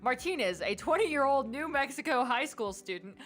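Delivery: lightly voiced news announcer. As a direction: read it like an announcer. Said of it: "You have to do your announcer voice".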